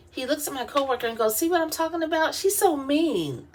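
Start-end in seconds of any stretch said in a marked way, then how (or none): 1.4-3.5 higher, teasing tattletale voice, slowing on "so mean"; mock complaint. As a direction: whine it to the coworker like a tattletale. Supervisor mock-complains to coworker.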